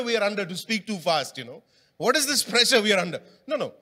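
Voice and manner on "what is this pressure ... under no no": laughing. Real, not acted. Preacher laughing at own point.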